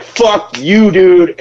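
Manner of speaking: high mock yell breaking into laughter; mock outburst. Cook cursing a server over a late ticket, in laughing mock fury. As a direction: curse them out, laughing as it lands.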